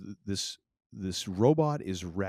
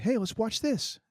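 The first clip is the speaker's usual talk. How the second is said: high, bright mock cheer, pitched way up; mock eager suggestion; 4 dB louder than usual. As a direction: sell the movie night like a giddy kid. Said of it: "I was like".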